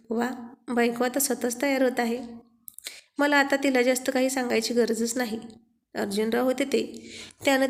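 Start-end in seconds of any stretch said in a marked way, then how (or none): none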